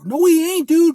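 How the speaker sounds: sharp high shout of no; yelled rebuttal to the fans; loud denial. Real, not acted. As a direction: shut the claim down hard. Rebutting the fans' claim.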